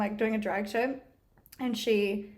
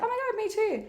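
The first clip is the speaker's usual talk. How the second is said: retold eagerness; 11 semitones higher than usual. Retold eager reply to girl.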